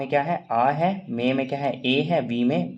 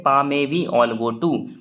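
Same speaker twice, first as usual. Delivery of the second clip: slow dictation; 4 dB louder, much slower than usual. Shown as a demonstration. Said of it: "वहाँ पे हम लोग एक सेंटेंस पढ़े थे".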